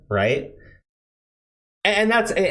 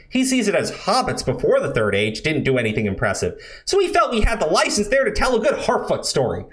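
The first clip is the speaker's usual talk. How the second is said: mocking article voice; 5 semitones higher, faster than usual.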